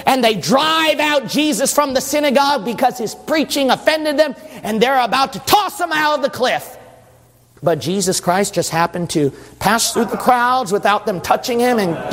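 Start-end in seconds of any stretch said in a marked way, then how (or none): 0.1-6.8 high-energy pulpit storytelling; forceful preaching. Acted.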